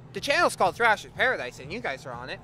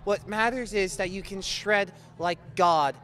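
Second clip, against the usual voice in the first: mock charity appeal. Host begs viewers to help the band, mock-earnest appeal. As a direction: plead on the band's behalf like a TV appeal.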